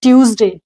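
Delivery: "ट्यूसडे" as TYOOZ-day, falling; model pronunciation. Shown as a demonstration. Teacher modelling Tuesday, "ट्यूसडे" said TYOOZ-day. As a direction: say "ट्यूसडे" in two clear English syllables. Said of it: "ये क्या है?".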